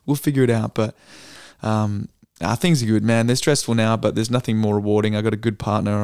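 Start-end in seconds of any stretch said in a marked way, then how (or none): 0.1-0.7 a gentle, slightly exaggerated comfort; mock empathetic. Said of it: "I'm trying to be empathetic".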